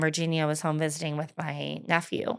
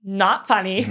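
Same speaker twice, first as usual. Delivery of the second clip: laughing protest; 6 dB louder than usual. Retold or imitated. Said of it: "I was like".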